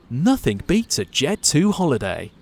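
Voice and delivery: slow, lightly voiced imitation of a holiday advert jingle. Host quotes the advert's famous tagline, in a mild mock advert voice. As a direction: read it out like a travel advert tagline. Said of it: "What's the jingle?".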